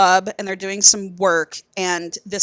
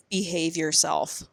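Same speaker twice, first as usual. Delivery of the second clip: low stern warning; 3 semitones lower, 8 dB quieter, slower than usual. Retold or imitated. Voicing Emerson warning Charlie.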